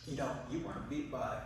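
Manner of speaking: acted teasing, breaking into laughs; hammed-up ridicule with laughter between words; mocking laughter. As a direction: taunt through put-on giggles. Animals laugh at beaten rabbit.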